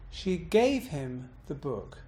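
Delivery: "gave" punched with a rise-fall; stress on GAVE. Shown as a demonstration. Teacher shifting the meaning, bouncing on gave. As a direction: bounce up on "gave", fall through "him the book". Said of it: "I've bounced on gave".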